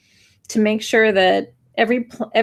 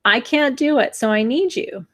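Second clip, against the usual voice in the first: higher, tearful pleading; near tears; 5 semitones higher than usual. Real, not acted. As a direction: hold back tears while asking. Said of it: "and I'm gonna cry".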